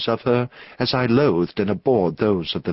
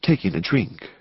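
plain reading voice

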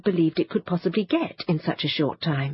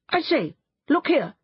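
excited call; 8 semitones higher than usual. A narrator's reading. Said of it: "holding out a paper and crying".

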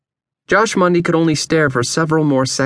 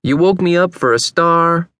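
higher, incredulous grievance; indignant, pitched-up question; disgusted disbelief; 6 semitones higher than usual. A narrator's reading. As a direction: complain in disgust at being woken. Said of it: "Vern looked at Josh in disgust".

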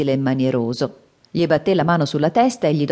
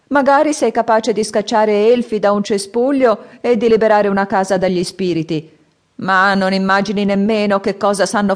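high, loud, slowing at the end; grave old man's warning; 5 semitones higher, 4 dB louder than usual. Acted. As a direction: warn the boy, weighing each word. Old man lectures. (vecchio che ammonisce, voce alta e forte)

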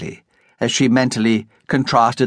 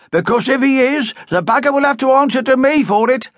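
protective matron; 8 semitones higher than usual. A narrator's reading. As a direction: vow to defend her. Gertie protective of Amy.

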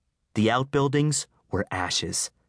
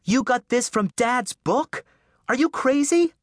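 scolding her brother, high and loud; incredulous outburst; 4 dB louder than usual. Acted. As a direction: hurl it at him while hitting him. Beat at his chest and face.

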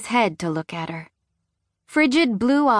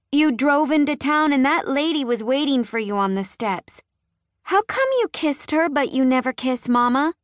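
put-on high, earnest little girl telling all; a small child blurting truth; high innocent child; 7 semitones higher than usual. A narrator's reading. Marnie telling her daddy what she saw, high and guileless.

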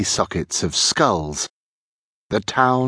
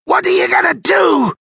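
very high, frightened character voice; terrified crook, pitched high; fearful question; 4 dB louder than usual. A narrator's reading. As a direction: ask it in rising panic. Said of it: "the fear showing in his eyes".

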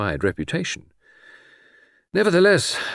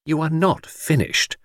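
slow, higher-pitched loyal protest; warm exclamation; 7 semitones higher than usual. A narrator's reading. Friend contradicts detective's retirement, exclaiming warmly. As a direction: insist on it warmly, word by word. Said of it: "I exclaimed warmly".

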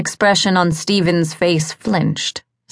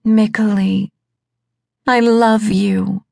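dying wife crying out; 5 semitones higher than usual. Acted. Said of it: "her voice cried out to him".

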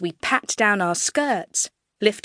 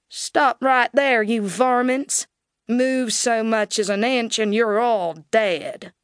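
marshal's warning; 2 semitones higher than usual. Acted. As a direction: hold the outlaws at gunpoint with your voice. Marshal orders outlaws to stop.

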